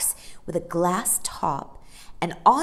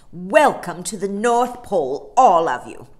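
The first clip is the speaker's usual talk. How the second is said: polar bear; 9 dB louder than usual. A narrator's reading. Polar bear welcomes children.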